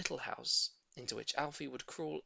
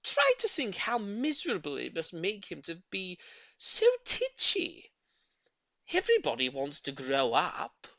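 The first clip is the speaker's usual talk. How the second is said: loud, with a whispered titchy; pleading old lady; 5 semitones higher, 7 dB louder than usual. A narrator's reading. Old lady pleading her tortoise's case, whispered titchy. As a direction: hush the last word.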